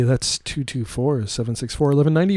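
slow, clearly spaced digits. Shown as a demonstration. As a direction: spell out the number slowly. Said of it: "what's the hotline number".

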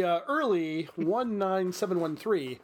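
slow, drawn-out announcement; formal announcement. Acted. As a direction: read it out slowly and grandly. Reads milestone announcement.

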